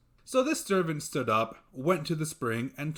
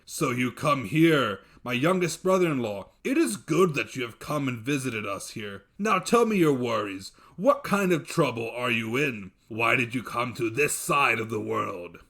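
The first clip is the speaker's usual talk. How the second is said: a giant glad of his guest; hearty dev; 4 dB louder than usual. Acted. Dev welcoming his young brother-in-law, booming and hearty.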